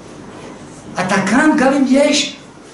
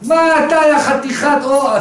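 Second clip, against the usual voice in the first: mock cursing; 5 semitones higher, slower than usual. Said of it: "מקלל אותם".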